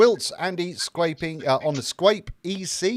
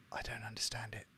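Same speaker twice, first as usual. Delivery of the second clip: whisper; 4 semitones lower, 17 dB quieter, faster than usual. Real, not acted. Baffled aside about popular mod.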